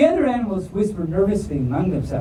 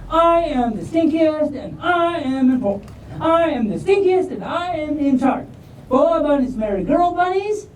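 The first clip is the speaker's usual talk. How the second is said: Southern stink bug; 8 semitones higher than usual. A narrator's reading. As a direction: play the proud stink bug with a Southern accent. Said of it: "Why am I talking all southern?".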